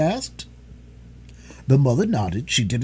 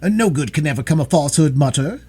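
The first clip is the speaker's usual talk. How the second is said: clear, louder, composed daughter; calm, clear; 4 semitones higher, 5 dB louder, faster than usual. A narrator's reading. Daughter urging her mother to honesty, calm and clear. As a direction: state it openly without wavering. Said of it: "spoke in a calm, clear voice".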